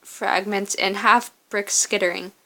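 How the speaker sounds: measured second-person story narration. Acted. Narrator telling the player of a lone walk through ash, story narration. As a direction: read the story out with steady, careful phrasing. Reads game's story aloud.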